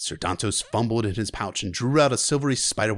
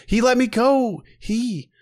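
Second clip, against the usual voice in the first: shocked protest; 12 semitones higher, 6 dB louder, slower than usual. Acted.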